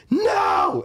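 put-on high, loud child's shout of no; imitating toddler's no. Toddler son refusing the pushy stranger, high shouted no. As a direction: shout it like a little kid refusing. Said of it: "Elliot's like".

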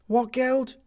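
high, loud sudden curiosity; the captain suddenly alert; greedy perked-up question; sudden interest. A narrator's reading. Captain perks up.

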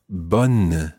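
bonne with an open non-nasal o and N; French bonne. Shown as a demonstration. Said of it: "a slightly different version of the word for good".

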